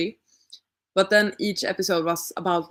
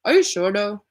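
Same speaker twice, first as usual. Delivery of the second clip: mouth full; 2 semitones higher than usual. Real, not acted. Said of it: "sorry for speaking with my mouth full".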